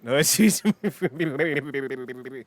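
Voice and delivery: rapid gibbering cartoon babble; cartoon coyote excitement. Shown as a demonstration. Showing how an Australian accent gets him jacked up, cartoon gibbering. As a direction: burble like a lovestruck cartoon coyote. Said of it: "see how I get jacked up".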